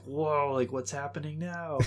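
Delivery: retold amazement. Viewer recalling the twist, mock amazed. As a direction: act out being caught off guard. Retelling stunned reaction to twist.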